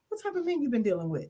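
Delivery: soft, quick, unbothered question; calm retort. Retold or imitated. Repeating her date's calm question to the others, softly unruffled. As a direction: quote him quietly, without irritation. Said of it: "he was so calm".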